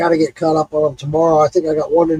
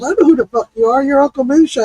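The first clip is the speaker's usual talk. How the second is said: brash retold guy; 7 semitones higher, faster than usual. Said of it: "He goes".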